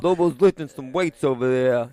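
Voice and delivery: imitating Gus's odd New York accent; lightly voiced New York tough guy. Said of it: "odd New York".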